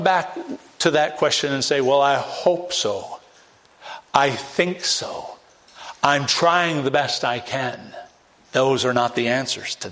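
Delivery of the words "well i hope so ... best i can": slow, hedging, uncertain; mock hesitant answer. Preacher imitating a doubtful churchgoer, slow and hedging. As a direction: drag it out like someone unsure of salvation.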